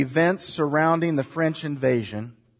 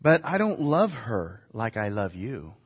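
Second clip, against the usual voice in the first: cheater's plea; 6 semitones lower, 6 dB quieter than usual. Retold or imitated. Voicing a cheater's line.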